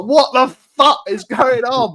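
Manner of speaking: stunned disbelief. Retold or imitated. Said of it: "And I'm like".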